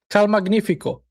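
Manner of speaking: "Cal Magnifico" repeated in one go as a check; practised pronunciation. Shown as a demonstration. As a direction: say "Cal Magnifico" joined up, testing it. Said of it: "Did I say it right?".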